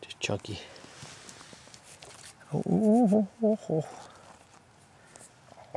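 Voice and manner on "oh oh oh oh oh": straining grunts while digging; effort grunt. Real, not acted. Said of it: "Sorry about the grunt and groaning".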